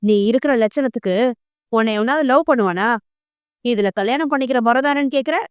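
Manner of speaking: fast, sneering contempt; mild disgusted scorn, rushed. Acted. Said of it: "அருவருப்பாக முகத்தை சுளிக்க".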